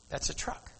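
soft hushed whisper; God whispering to him beside the truck. Acted. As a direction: breathe it out like a secret. God speaks to him quietly.

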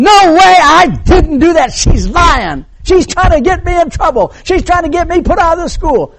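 high, loud indignant protest; vehement denial. Retold or imitated. Boy denying it before both sets of parents, vehemently. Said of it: "he is denying it vehemently".

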